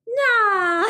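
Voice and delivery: high, loud careless nah; teen brushing off her dad about studying; dismissive nah. Retold or imitated. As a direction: brush off the question.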